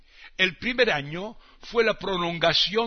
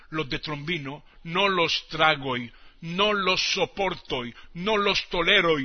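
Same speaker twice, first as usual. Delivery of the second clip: building rant. Acted. Building rant against Trombino.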